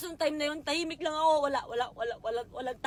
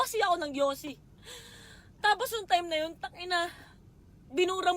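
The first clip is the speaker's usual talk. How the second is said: crying; 4 semitones higher than usual. Real, not acted. Confessing painful past to ex.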